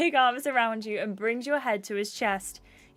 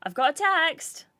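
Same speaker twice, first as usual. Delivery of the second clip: excited announcement; 5 semitones higher than usual. Acted. Announcing a text in the game.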